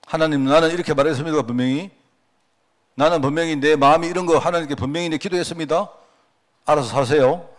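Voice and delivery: pressing God with a firm demand; pushy insisting prayer. Retold or imitated. Preacher mimicking a forceful believer praying, pushy and insistent. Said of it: "강제 같은 거".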